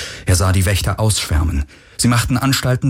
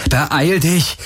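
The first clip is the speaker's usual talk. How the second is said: higher, urgent call to hurry; 7 semitones higher than usual. Acted. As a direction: press her to be quick. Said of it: "rief Garland".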